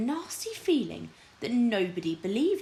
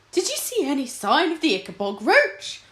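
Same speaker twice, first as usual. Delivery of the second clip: whimpering; 8 semitones higher, 5 dB louder than usual. Acted. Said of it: "whimpered Fred".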